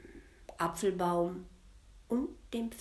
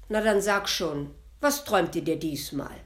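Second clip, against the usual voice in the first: louder, eager prodding; curious devil pressing his grandmother; hint of a curious devil; 5 dB louder than usual. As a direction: push her to tell. Curious devil urges her.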